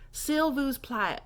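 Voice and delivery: "s'il vous plaît" slow and linked; flowing French demo. Shown as a demonstration. Teacher showing how it flows, smooth drawled demo. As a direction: let "s'il vous plaît" flow into plah-it. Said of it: "So it kinda flows".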